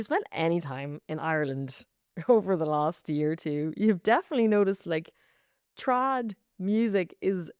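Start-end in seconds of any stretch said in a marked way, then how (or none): 5.8-7.5 slow hammed-up British accent on bloody; a light put-on British voice, laughing; mock British accent. Host on the trad music boom, in mock British accent. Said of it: "Isn't that a fitting British accent?".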